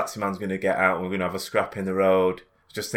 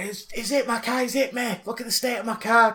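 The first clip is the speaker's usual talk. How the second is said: put-on high Irish old lady scolding, pitched well up; 13 semitones higher than usual. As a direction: nag like an angry little Irish granny. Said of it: "Irish accent".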